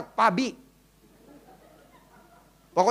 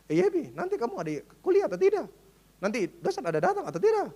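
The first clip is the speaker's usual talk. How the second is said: put-on NTT accent; 4 dB quieter than usual. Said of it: "lucu sekali aksennya".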